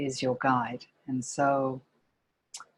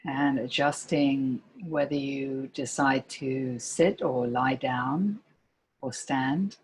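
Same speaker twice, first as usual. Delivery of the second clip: calm meditation guide with long pauses between phrases; guided meditation. Real, not acted. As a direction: gently lead listeners into body and breath, pausing often.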